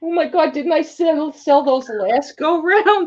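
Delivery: high laughing disbelief. Real, not acted. Seller laughing at Eddie's postcards. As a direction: giggle through it.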